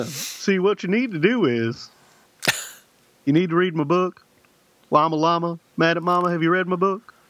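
a hint of folksy talk-show advice; Doctor Phil. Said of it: "That's my Doctor Phil".

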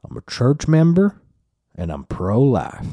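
high, proud declaration; mock Texan woman. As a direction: proudly state it like a church lady. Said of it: "faction of women that were like".

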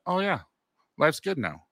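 high-pitched, contented acted sigh of words; blissed-out relief. Patient after a muscle relaxer, blissed-out relief. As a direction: lift it high, all troubles gone.

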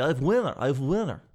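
imitating an excited winner; lightly put-on announcing voice; mock excited yell. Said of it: "again, he's just yelling".

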